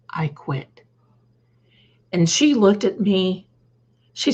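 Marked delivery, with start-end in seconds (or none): 0.1-0.8 a quiet, breathy whisper of defiance; whispered quit. Retold or imitated. To the boss as she quits, a defiant whisper. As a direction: drop to a whisper as you quit.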